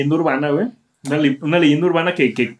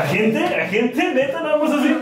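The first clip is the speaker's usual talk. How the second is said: rising higher and higher in disbelief; a high, playful can-this-be-it; incredulous; 11 semitones higher than usual. Retold or imitated. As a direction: act amazed that's all she wants. His incredulous reply retold.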